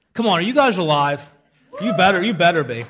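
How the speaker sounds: loud, energetic call to the audience; rousing the crowd. Real, not acted. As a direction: fire up the congregation.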